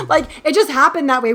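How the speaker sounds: amused laugh-talk. Real, not acted. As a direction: giggle it out amused. Laughing at own diverse-cast line.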